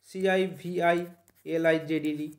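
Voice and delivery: very slow, letter by letter; spelling out. Shown as a demonstration. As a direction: spell it out slowly for a class. Spelling the word out for students. (ধীরে ধীরে বানান করে বলা)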